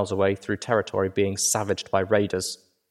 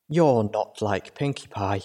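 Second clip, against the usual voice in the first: Velvet Remedy; slower than usual. Acted. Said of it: "Velvet Remedy's voice broke the air".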